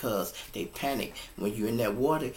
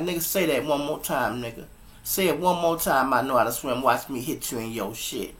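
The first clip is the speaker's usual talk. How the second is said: retold argument; 4 dB louder than usual. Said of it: "me and him even got into it".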